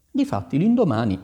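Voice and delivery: ordinary delivery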